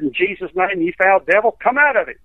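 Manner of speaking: preacher's command, rising at the end; retold exorcism command. Evangelist casting out a foul devil, retold command.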